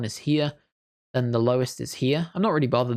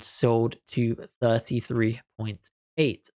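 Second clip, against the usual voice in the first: auctioneer voice; 3 semitones lower, slower than usual. Pretend. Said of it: "I sound like an auctioneer".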